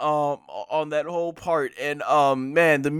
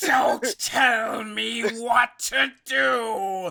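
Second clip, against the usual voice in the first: Frieza shouting back; 7 semitones higher, much slower than usual. Retold or imitated. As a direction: snap it back at him. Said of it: "constantly responding".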